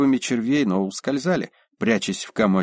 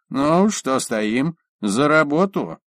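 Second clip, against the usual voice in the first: stern; 5 semitones higher, much slower than usual. Acted. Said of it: "грозно насупился".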